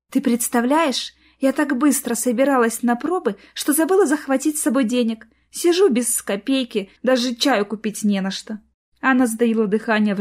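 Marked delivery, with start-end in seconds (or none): 0.1-8.6 sweet pleading. Acted. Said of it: "нежно пропела она".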